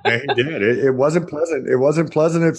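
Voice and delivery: real laugh breaking into the words. Real, not acted. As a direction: chuckle through the yeahs. Laughing at retold rebuke.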